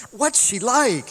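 high, loud and slow eager question; excited tourist. Retold or imitated. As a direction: lean in, dying to know. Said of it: "they asked him very excitedly".

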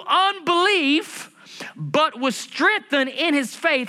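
slow, emphatic preacher reading; preached scripture reading. Acted. Preacher reads Abraham's story to the congregation, emphatic. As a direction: draw out the key words, rising as you go.

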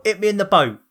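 mock Cockney, pitched high; Danny Dyer. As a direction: offer it up like a cartoon London geezer. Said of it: "have to be Danny Dyer".

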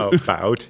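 exaggerated "About" as a-BOWT; stressed "about". Shown as a demonstration. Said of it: "How do you say about?".

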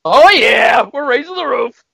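loud, high party whoop; excited cheer. Pretend. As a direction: whoop like raising the roof. Cheering with the crowd.

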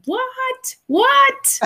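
very high, mock-shocked squeal; astonished. Co-host acting out her reaction to things, astonished. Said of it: "things that I was like".

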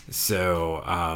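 talking while crunching chips. Real, not acted. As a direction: mouth full of chips. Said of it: "Excuse the crunching".

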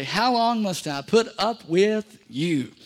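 slow, teasing question to a neighbour; mock exasperation. Shown as a demonstration. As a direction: play it fed up, half joking. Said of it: "Look at your neighbor and say".

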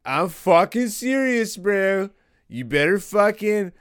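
hammed-up white-guy seriousness. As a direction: press it slowly in a put-on white-guy voice. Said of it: "my white voice".

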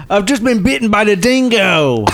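laughing mock Aussie accent; a hint of an Aussie through laughter; Australian accent.

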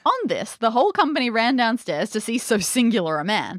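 measured storybook reading; story narration. A narrator's reading. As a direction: read the old tale with formal care.

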